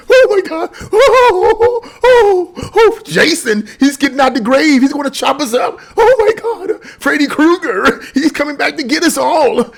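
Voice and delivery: high, hammed-up shrieking terror with fake sobs and laughs; mock panic. Mocking frightened citizens, hammed-up screaming panic. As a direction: squeal like a horror-movie victim, mocking the gullible.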